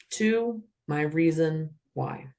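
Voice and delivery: slow, steady robotic call; even mechanical cadence. Shown as a demonstration. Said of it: "like a robot with this cadence".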